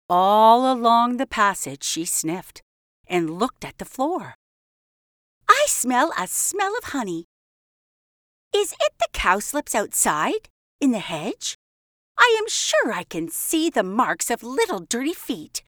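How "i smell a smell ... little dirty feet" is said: higher, suspicious little mouse; fussy mouse voice. Acted. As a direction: sniff around like a prim mouse. Mrs Tittlemouse sniffing the passage.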